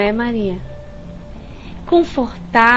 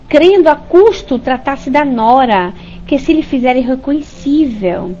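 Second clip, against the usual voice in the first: book reading; 2 semitones higher than usual. Acted. Speaker reading the book's passage to listeners, solemnly. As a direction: read the passage out with weight.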